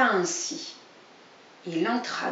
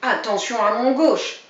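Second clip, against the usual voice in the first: threatening; 6 dB louder than usual. Acted. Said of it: "menaçait Grisou".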